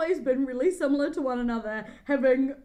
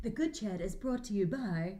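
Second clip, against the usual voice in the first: mock ad intro; 5 dB quieter than usual. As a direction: pretend sponsor announcement. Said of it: "we need to intro the ad segment".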